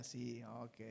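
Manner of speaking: put-on low, soft meek child. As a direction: answer sheepishly. Hijo responde sumiso. (hijo sumiso, voz baja)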